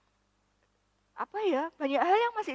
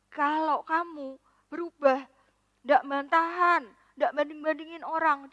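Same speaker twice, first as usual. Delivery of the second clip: firm demand; 3 semitones higher, 5 dB louder than usual. Retold or imitated. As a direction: lay down the husband's terms with growing force. Husband's demand repeated with force.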